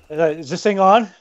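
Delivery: mic check before a speech; tapping the mic. Acted. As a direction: test the mic, then address the crowd. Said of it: "I'm gonna tap on the microphone".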